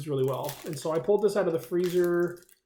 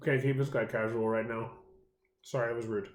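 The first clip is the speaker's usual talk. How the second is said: talking through a mouthful of chocolate; words round a big bite; mouth full; 5 semitones lower, 3 dB quieter than usual. Real, not acted. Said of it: "My mouth's full".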